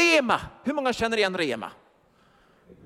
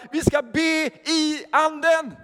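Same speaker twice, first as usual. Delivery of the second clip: slow, higher and louder exhortation; fervent preaching; 6 semitones higher, 4 dB louder, slower than usual. Acted. Preacher urging the congregation to pray, slow and loud. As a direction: press each word of the call to pray.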